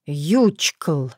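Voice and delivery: low, strange whispered word; eerie shadow whisper. A narrator's reading. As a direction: hiss it like a shadow from a dream. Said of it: "как звук повторился".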